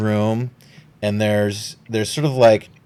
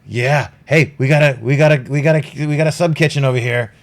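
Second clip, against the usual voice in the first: gruff captain; 3 semitones higher, 4 dB louder, faster than usual. Acted. GM voices Hostelon.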